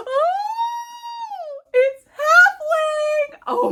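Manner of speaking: very high, drawn-out delighted cry; breathless excited exclamation; thrilled gasp. Real, not acted. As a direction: squeal the title in joy. Gasps at the book she loves.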